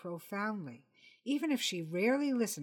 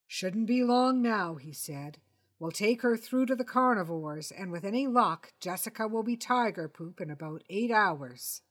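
casually plan the disposal; lightly voiced Jonathan; 5 dB louder than usual.

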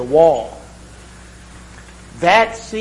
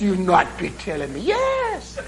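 mock Irish brogue; 3 semitones higher than usual. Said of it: "my Irish brogue sounds a lot like Jamaican".

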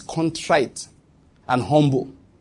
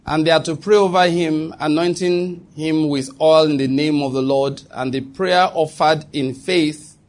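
solemn scripture reading. Acted. Reads James 5 aloud.

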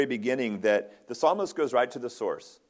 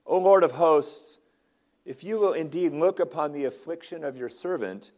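raised, earnest prayerful cry; 4 semitones higher, 4 dB louder than usual. Retold or imitated. Hannah praying to the Lord for a son, crying out. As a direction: call out to God, pitch lifted. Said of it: "she cries out something very similar".

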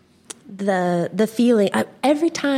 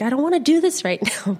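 put-on reluctant kid; 5 semitones higher, faster than usual. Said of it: "I'd be like".

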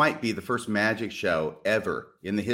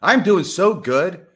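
excited; 7 semitones higher, 9 dB louder, slower than usual. Real, not acted. Answering how he is.

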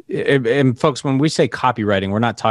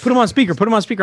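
much higher, laughing through a hammed-up wife voice; squeaky mock wife; 13 semitones higher, 4 dB louder, much faster than usual. Husband mimicking his wife demanding speakerphone, high and laughing. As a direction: playfully mimic the wife's nagging, high and giddy.

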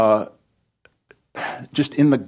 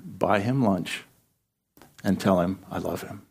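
God repeating, softer; 4 semitones lower, 6 dB quieter than usual. Retold or imitated. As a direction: quietly press the command a second time. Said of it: "And God said again".

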